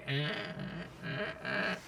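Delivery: dumb stammered grunts; Christian Horner. Acted. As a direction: mimic dim, halting noises on the radio. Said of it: "Christian Horner with his dumb face".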